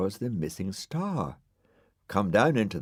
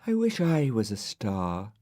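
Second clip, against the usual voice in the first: sighing; 3 semitones higher than usual. Acted.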